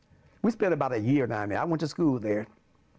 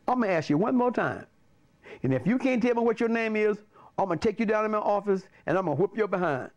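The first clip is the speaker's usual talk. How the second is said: imitating the principal; 5 semitones higher than usual. Principal threatens the pupil.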